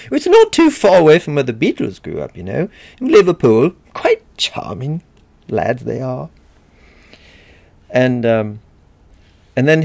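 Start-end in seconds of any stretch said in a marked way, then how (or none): 0.1-6.3 playful mock Manchester accent, lilting upward; imitated Manchester accent. Lecturer recalling how they teased a friend, mock Manchester accent. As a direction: put on an English northerner's Manchester accent. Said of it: "I would imitate his Manchester accent".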